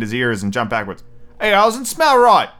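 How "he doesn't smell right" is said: high, loud, drawn-out rabbit voice; exclaiming. A narrator's reading. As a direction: blurt the discovery slowly, way up in pitch. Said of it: "he exclaimed".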